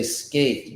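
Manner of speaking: "skate" with no puff of breath on the K; unaspirated K. Shown as a demonstration. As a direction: hold back the breath on the K of "skate". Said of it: "you're breathing out more".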